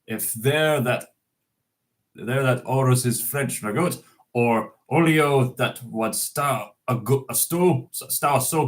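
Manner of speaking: reciting Burns in a lightly put-on Scots accent; an unpractised Scots accent, recited; Scots poem reading. Shown as a demonstration. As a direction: read it out like a Burns Night address in Scots. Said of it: "I'm not used to speaking Scots".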